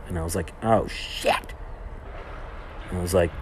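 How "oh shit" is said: breathy whisper of dismay; hushed "oh shit" as it dawns on him. Retold or imitated. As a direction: whisper it like you just realized your mistake. Realizing he did wrong.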